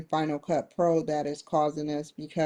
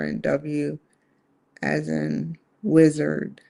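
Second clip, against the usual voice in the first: measured dictation, pausing after each letter and word; slower careful spelling. Real, not acted. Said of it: "saying that just a little bit slower".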